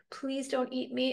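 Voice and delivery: mildly frightened little plea; crying plea. Acted. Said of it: "Evergreen cried".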